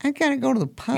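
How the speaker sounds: hammed-up Irish accent, quick and high. Host retrying the Irish accent after being told it's horrible. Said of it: "No, horrible".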